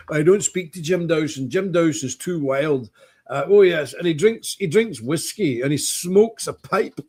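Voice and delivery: lightly done prim, pious put-on voice; sanctimonious churchman mimicry. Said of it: "This is the way he was. Real po-faced, sanctimonious".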